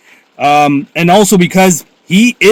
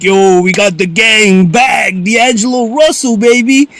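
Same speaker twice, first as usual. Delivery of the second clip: hyped quote. Retold or imitated. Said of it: "where he's like".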